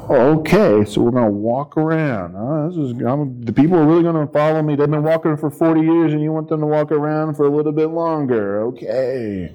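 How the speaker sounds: doubtful Joshua. Acted. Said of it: "I can imagine Joshua's like".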